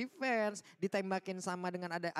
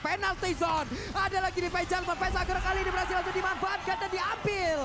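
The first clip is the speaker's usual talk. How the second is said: excited; 9 semitones higher, 7 dB louder than usual. Real, not acted. Caster reacting to a big play.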